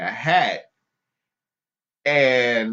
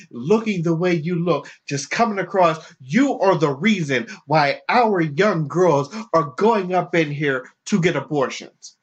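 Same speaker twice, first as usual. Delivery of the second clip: accusing protester; 4 semitones higher than usual. Retold or imitated. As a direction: lightly voice the scolding protester. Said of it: "it was just like".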